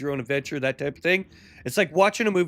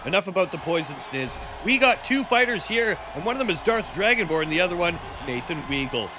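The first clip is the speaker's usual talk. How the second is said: wrestling announcer; 2 semitones higher than usual. Pretend. Commentator asking Opie about tonight's fighters, wrestling announcer. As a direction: lively fight commentary, names punched.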